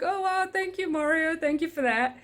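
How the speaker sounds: flustered mock thanks. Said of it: "and I'm like".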